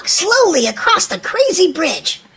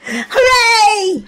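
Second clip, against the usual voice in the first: cheerful shout; 3 semitones higher than usual. Acted. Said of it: "Willy-Nilly shouted".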